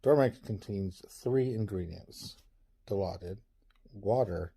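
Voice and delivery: calm, smooth commercial voice; soothing ad read. Acted. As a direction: sell sleep like a late-night ad. Reads a mock sleep ad.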